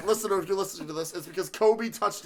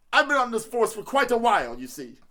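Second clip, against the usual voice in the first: higher, louder New Jersey cop voice; 4 semitones higher, 4 dB louder than usual. Pretend. Cop to his partner Joe, hammed-up New Jersey accent. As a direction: ham up a New Jersey policeman. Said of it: "I have to do this to stay in character".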